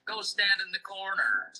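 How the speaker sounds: "Go stand in the corner" ending on a clear fall; falling intonation. Shown as a demonstration. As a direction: let CORNER drop at the end. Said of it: "The sound also goes down".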